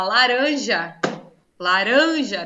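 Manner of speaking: "laranja" com o "ran" forte e alongado; sílaba tônica destacada. Shown as a demonstration. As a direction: diga "laranja" mais alto, carregando no "ran". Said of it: "Mas toda sílaba tônica é acentuada?". (destaque o "ran" de "laranja", como professora)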